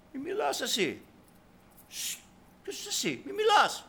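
mock rebuke from the crowd; crowd hushing someone. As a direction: shush him and put him in his place. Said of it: "Όχλος".

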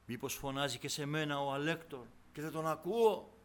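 usual speaking voice

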